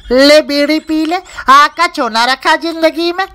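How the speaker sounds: slow, tender offer in a changed voice; lovingly offering. Acted. Lover tenderly offers a bidi, in a slow changed voice. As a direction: coax slowly, as if offering love.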